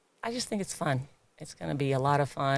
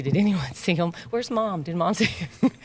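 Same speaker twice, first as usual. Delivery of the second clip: lightly mimicked, higher-pitched eager questions; eager clients; 3 semitones higher, 3 dB louder than usual. Gym clients looking round for Mom's approval, playfully imitated eagerness. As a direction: imitate clients hoping they were noticed, with a laugh.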